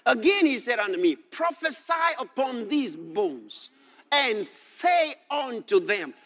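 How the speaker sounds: declaimed verse, slowing down; scripture reading. Acted. God commands Ezekiel to prophesy, slow declaimed reading. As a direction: read the command out slowly and deliberately.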